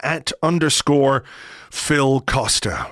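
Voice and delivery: slow and deliberate, each word separate; slow, spelled out. Shown as a demonstration. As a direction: read the handle out slowly so they can note it. Repeating the handle slowly.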